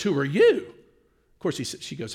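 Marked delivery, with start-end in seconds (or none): 0.0-0.7 "you" punched as the real question; stress on YOU. Retold or imitated. Man turning the question on the wife, stress on "you". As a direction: throw it back louder, leaning on "you". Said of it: "The real question is".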